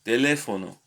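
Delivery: "Teléfono" with the second syllable stressed. Shown as a demonstration. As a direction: lean on the LE in "Teléfono". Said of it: "the accent is on the second".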